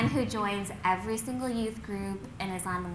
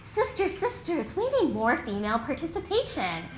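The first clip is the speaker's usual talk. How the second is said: campus community activist; 6 dB louder than usual. Acted. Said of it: "there's the campus community activist".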